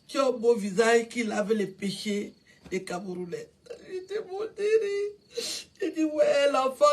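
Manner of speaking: weeping while speaking, half laugh, half sob; tearful. Real, not acted. A mother remembers Cabrel's kind words and weeps through them. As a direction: voice breaking between a laugh and tears.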